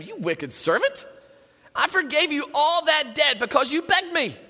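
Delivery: mildly indignant rebuke, lifting in pitch; angry master. Acted. Master rebuking the unforgiving servant, mild anger. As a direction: scold with rising indignation. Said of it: "his master was angry".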